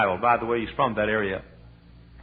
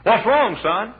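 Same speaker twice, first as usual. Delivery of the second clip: kindly question; 10 semitones higher, 8 dB louder, much slower than usual. Retold or imitated. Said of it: "Mister Moody".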